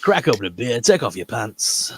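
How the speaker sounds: put-on laid-back southern accent, taking it easy. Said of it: "trying to do, like, a southern accent".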